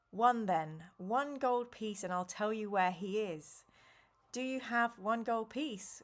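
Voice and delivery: even storybook read-aloud voice; story narration. A narrator's reading. Streamer reading the adventure aloud to chat, narrating. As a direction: read the gamebook to the listeners.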